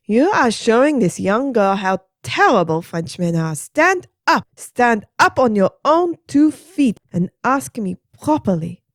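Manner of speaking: high commanding French lady; scolding Adeline. Acted. Adeline scolding the kneeling teacher, high firm. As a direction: order him up, high and firm.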